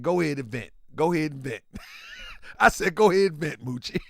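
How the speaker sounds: calm down an upset friend; soothing coax. Retold or imitated.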